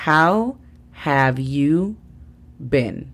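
"How have you been?" en inglés claro; English model. Shown as a demonstration. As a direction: modela la frase completa. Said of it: "La pronunciación fonética". (modelo de "How have you been?")

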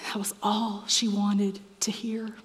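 a tender whispered aside; hushed whisper. Acted. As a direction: whisper it softly. Tender point in sermon.

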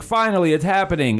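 high-pitched mock excitement; playfully imitating someone thrilled; acted elation. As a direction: at last it's here, voice lifted. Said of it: "you were like".

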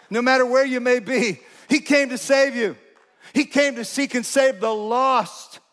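rally the congregation with good news; preaching climax. Acted. Pastor telling congregation he came to save them, fervent preaching.

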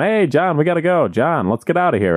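imitating friends urging someone out; calling a friend away. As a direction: call John over to leave, pitch lifted at first. Retold friends calling John away.

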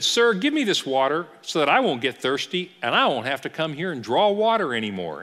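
lightly sarcastic request; a little snarky. Retold or imitated. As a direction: imitate a woman playing along with attitude. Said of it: "she's getting a little snarky".

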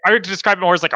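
ordinary delivery

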